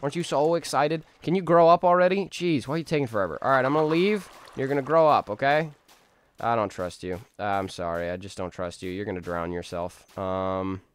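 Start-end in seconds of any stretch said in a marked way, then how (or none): 0.0-5.7 put-on higher, sing-song coaxing of a baby chicken; coaxing baby talk. Streamer coaxing his baby chicken to grow up, high baby talk. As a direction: chivvy the little chick to hurry and grow.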